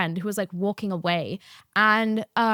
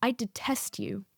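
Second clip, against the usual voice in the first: quiet cold "I detest you"; 7 dB quieter than usual. Retold or imitated. Teacher to student, a quiet icy put-down. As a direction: hiss it coldly as the teacher. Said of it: "She says".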